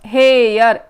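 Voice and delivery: हेयर with the ए sound stretched out; हेयर said slowly, dwelling on its ए vowel; drawn-out vowel. Shown as a demonstration. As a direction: draw out the ए in हेयर so it is clearly heard. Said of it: "ए का sound आ रहा है".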